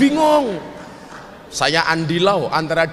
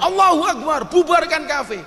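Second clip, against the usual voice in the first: imitating street protesters yelling, pitched high; mock yell; 8 semitones higher than usual. Preacher mimics protesters shouting at the café, mock yell. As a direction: throw it out like an angry crowd chant. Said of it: "di jalan teriak-teriak".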